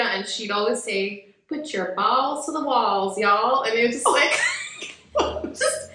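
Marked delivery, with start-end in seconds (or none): 1.5-3.6 slow, light Georgia accent, imitated; Georgia girl. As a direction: quote her slowly with a hint of Georgia. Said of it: "She was from Georgia".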